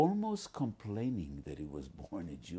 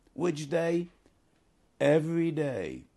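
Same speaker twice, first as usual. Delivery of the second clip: emphatic rhetorical question; 9 semitones higher, 8 dB louder than usual. Acted. Rhetorical question and answer in sermon.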